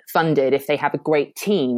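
quoted line, slowing to weight "great"; stress on great. Retold or imitated. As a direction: put light emphasis on the word "great". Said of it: "there's that emphasis on the word great".

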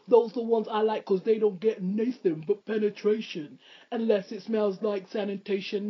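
lightly voiced rapper's flow. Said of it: "I'm gonna do it in my rapper voice".

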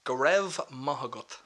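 "Grev Mahagut" slowly, each word set apart; slow demonstration. Shown as a demonstration. Teaching Irish thanks to the hosts, "Grev Mahagut" said slowly. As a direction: stretch out "Grev Mahagut" for a learner to copy. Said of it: "can you say it once more?".

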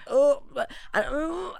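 exaggerated groans of pain; fake groans. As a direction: groan to hint it hurts. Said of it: "so I made a few groans".

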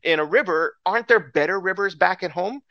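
acted indignant complaint; exasperated mock tirade; insulted Naaman. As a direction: argue back, affronted and incredulous. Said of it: "he's so insulted".

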